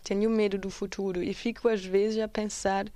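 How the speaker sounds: measured Portuguese poem reading; poem recitation. Acted. Presenter reciting an activist's poem to listeners, poem recitation. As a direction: read it out as spoken verse.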